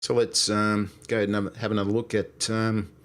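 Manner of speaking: casual, normalised Aussie accent; Australian accent. Shown as a demonstration. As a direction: chat easily in an Australian accent. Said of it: "this is my attempt at an Australian accent".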